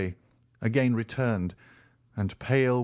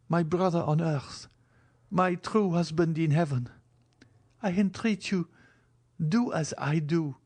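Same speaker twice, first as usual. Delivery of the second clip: put-on higher, pleading young woman; Valentine's voice; 8 semitones higher than usual. A narrator's reading. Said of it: "said she".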